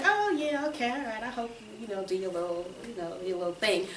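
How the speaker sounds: high-pitched "oh yeah" trailing into a soft, casual brush-off; casually noncommittal retold reply; breezy agreement. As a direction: imitate agreeing offhandedly, starting high and easing down. Retelling her casual agreement.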